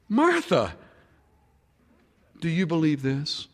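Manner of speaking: preacher repeats the question, now ringing out; pleading call. Acted. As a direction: call out the question to the whole room. Preacher repeats Jesus's question forcefully.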